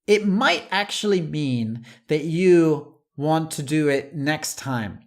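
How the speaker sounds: ordinary talk, nothing marked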